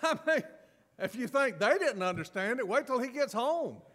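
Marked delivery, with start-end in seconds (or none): 2.7-3.8 high, loud, laughing through the words; can't hold back the laugh. Real, not acted.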